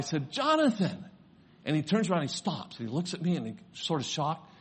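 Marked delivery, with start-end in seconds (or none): 0.3-1.0 high-pitched call of a name. Retold or imitated. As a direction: call to the child, raised but not shouted. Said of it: "And so I yell".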